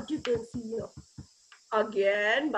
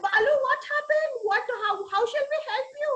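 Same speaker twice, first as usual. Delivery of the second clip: higher, anxious questioning; a touch of raised alarm; mild concern; 7 semitones higher, faster than usual. A narrator's reading. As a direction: ask urgently, as if worried. Worried farmers question Balu.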